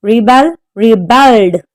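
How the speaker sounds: rebelled, stressed on BELLED; rebelled with the weight on its second syllable. Shown as a demonstration. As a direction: say Rebel as re-BEL. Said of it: "Stress is on the second syllable".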